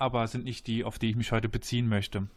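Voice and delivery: ordinary talk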